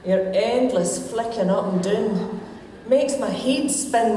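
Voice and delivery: broad Scots comic poem recital; Scottish accent. Shown as a demonstration. Woman reading her wee poem to the lassies' men, Scottish accent. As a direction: recite rhyming verse in a Scottish accent, pausing for laughs. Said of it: "read this in my Scottish accent".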